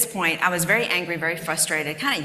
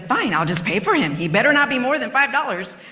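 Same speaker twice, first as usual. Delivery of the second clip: reluctant fine, raised and higher; grudging, louder; 6 semitones higher, 5 dB louder than usual. Retold or imitated. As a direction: give in with a grumble. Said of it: "reluctant giving in".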